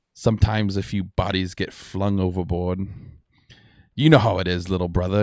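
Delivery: lightly voiced boastful pirate captain; pirate lord. Pirate lord boasting to a captive, lightly voiced. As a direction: play a cocky pirate lord, drawing out key words.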